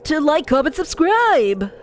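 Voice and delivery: silly clown. Acted. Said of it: "sounding kinda like a clown".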